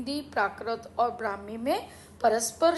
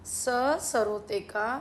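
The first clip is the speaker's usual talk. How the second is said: sounding out words; 2 semitones lower, slower than usual. Shown as a demonstration. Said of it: "सत्थ कैसे लिखा जाएगा?".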